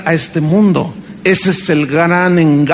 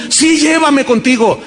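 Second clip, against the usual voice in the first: pleading; 6 semitones higher, slower than usual. Retold or imitated. Daughter answering.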